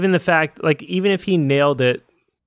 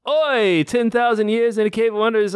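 genie; 9 semitones higher than usual. Retold or imitated. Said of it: "he comes out of the lamp and it's".

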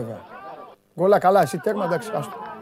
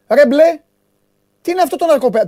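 mock exasperation; 6 semitones higher, 3 dB louder than usual. Real, not acted. Mocking the blue team.

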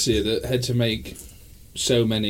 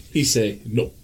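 mock French accent; much slower than usual. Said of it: "his French P A that was speaking for him".

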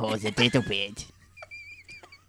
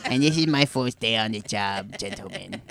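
speech impediment voice. Acted. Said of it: "hired here as a replacement for Faven's actor".

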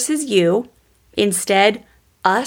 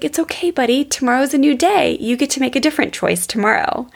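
imitated reassuring dad; 5 semitones higher than usual. Dad voiced comforting his son.

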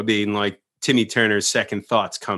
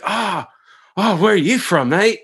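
put-on eager young surfer; 9 semitones higher, 5 dB louder than usual. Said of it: "you're like".

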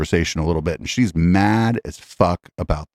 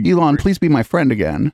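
mock pleading; 6 semitones higher than usual. Host mocks the guest's plea.

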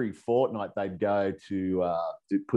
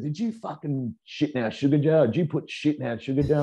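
accusing; 7 semitones higher than usual. Retold or imitated. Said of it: "They said".

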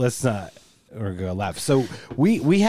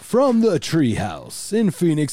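radio announcer; much slower than usual. Acted. Show opening announcement.

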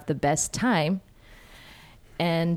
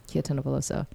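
normal talking voice

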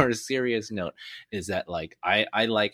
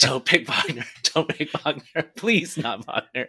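mock pleading; 6 semitones higher, 4 dB louder than usual. Acting out own draft plea.

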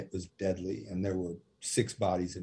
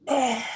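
much higher, louder cheering cry; mock crowd roar; 6 dB louder than usual. Inmates at tenth cell roaring back, much higher loud cheer. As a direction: imitate a whole cell block roaring.

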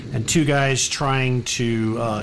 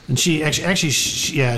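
ordinary talk

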